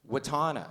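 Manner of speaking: Watana as wuh-TAH-nuh, long middle vowel; mispronounced name. Retold or imitated. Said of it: "you can pronounce it two different ways".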